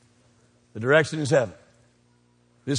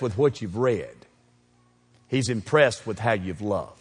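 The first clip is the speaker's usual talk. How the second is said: soft, low and intimate; hushed; 6 semitones lower, 6 dB quieter than usual. Real, not acted. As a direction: lean in and say it softly. Preacher drops to near hush.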